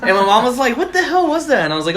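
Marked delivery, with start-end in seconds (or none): 0.8-1.6 imitated baffled mom. Imitating his mom's question.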